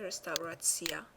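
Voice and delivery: رستوراتسیا with r sounded as in Persian. Shown as a demonstration. Teacher pointing out the letter ر, رستوراتسیا with Persian-like r. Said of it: "دقت کنید که شبیه فارسیه".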